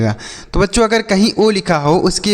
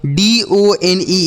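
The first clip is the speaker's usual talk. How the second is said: एन ओ एस ई, every letter spaced and drawn out; slow letter-by-letter spelling; much slower than usual. Shown as a demonstration. Teacher spelling a word slowly for children, slow and spaced. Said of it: "इसे पढ़ेंगे डोन".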